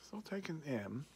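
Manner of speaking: talking around a pipe stem; speaking while clenching a pipe; pipe in mouth. Real, not acted. Seen 3: Pipe stem held in mouth in every frame, before and after.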